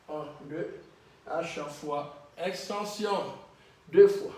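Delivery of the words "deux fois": shouted count. Real, not acted. Coach counting reps.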